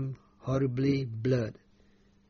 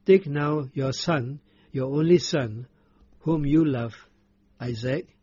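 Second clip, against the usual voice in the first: a hint of a solemn divine command, louder; voice of God; 4 dB louder than usual. God commanding Abraham, lightly voiced solemn. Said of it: "And he said".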